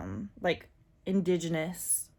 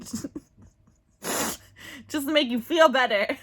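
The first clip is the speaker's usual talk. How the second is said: laughing; 6 semitones higher, 6 dB louder than usual. Real, not acted. Joking offer to viewers.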